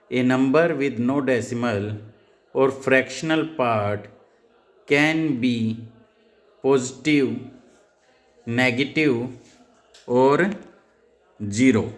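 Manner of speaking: reading the definition off the slide slowly. Shown as a demonstration. Teacher reading the slide definition aloud to students, slow and deliberate. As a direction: dictate each word to the class. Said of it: "मैंने यहाँ पर लिखा है".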